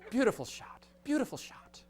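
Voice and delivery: high, laughing praise; excited praise. Retold or imitated. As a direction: gush over the shot. Crew cheering the shot.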